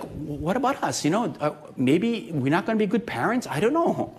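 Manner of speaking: half-hearted hopeless prayer; quiet despairing prayer. Retold or imitated. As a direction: let the doubt sink into a low, hushed plea. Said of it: "we just feel like".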